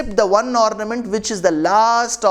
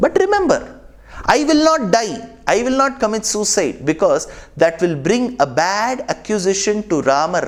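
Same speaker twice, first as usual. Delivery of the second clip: emphatic vow; 3 semitones higher than usual. Acted. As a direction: pitch it up, firmly insisting. Sita's vow to Lakshmana.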